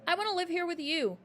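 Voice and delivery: high loud plea; a girl begging her teacher; crying out. A narrator's reading. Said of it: "Matilda cried out".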